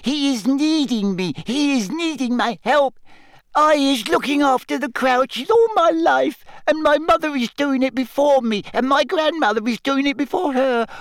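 high tearful wailing elf. Acted. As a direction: lament her master. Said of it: "tears leaking down her face".

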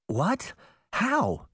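quick, high, startled questions; startled Sabrina. Acted. Girl startled by the news, asking what happened.

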